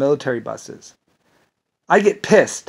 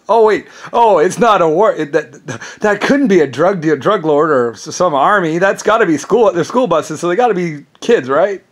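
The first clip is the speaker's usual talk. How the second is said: higher, louder dopey inner voice; mocking naive soldiers; 4 semitones higher, 5 dB louder than usual. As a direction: play it like a clueless thinker talking himself into it. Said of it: "You thought that they thought".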